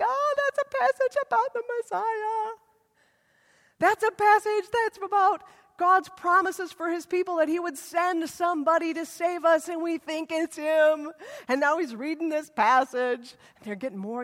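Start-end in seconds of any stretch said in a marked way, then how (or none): 0.0-11.1 eager townsfolk voice. Retold or imitated. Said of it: "And they're like".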